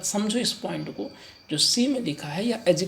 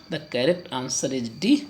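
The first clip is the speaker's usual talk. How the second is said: slow answer announcement; 2 semitones lower, much slower than usual. Shown as a demonstration. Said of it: "announcing answer".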